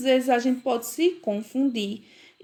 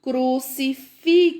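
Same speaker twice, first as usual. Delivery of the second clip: "Crucifixo" broken into slow syllables; "Crucifixo" drawn out with a clear ks; 3 semitones higher, 3 dB louder than usual. Shown as a demonstration. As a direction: say "Crucifixo" bit by bit, ending FIK-so. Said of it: "Falem bem devagarinho".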